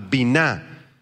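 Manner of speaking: biná with stress on its last syllable. Shown as a demonstration. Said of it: "acento en la A".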